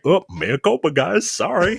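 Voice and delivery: rising, breezy fake apology; mock apology. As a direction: toss off a hollow sorry. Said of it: "and it's just like".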